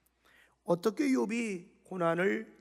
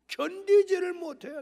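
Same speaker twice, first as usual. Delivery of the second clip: emphatic; 9 semitones higher, 6 dB louder than usual. Retold or imitated. Describing Job's torment.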